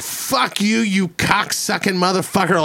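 mild mock cuss-out; retold cussing. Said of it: "She's going off, dude".

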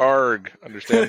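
mock pirate with pitch lifting; lightly hammed pirate interjection; talking like a pirate. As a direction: punctuate it with a pirate "arg". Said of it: "you're talking like a pirate".

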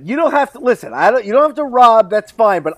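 mock rogue voice. Friend jokingly voicing Hugo bossing the king, hammed-up. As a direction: play it like a shady buddy asking a favour.

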